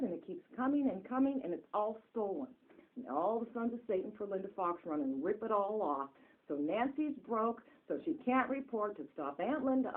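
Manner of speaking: real anger rising from loud complaint to near shouting; angry rant. Real, not acted. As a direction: vent the outrage, climbing until shouting. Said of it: "we're very angry".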